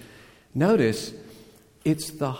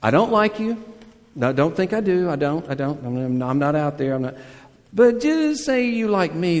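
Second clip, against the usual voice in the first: put-on higher and louder, a boy protesting too much; defensive nervous denial; 4 semitones higher, 4 dB louder than usual. Boy to his crush, nervous defensive denial. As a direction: insist you don't care, then blurt the ask. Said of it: "Which is basically to say".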